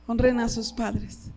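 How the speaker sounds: slow it down and lean on "Honren"; slow, emphatic repeat. Shown as a demonstration. Pastor urging the young people, slow and emphatic.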